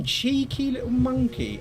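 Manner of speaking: teasing. Real, not acted. Teasing an enemy in game.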